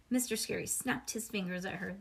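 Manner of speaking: ordinary delivery, nothing marked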